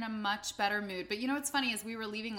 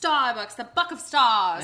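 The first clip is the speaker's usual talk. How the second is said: mock announcer; 9 dB louder than usual. Mock grand sponsor read.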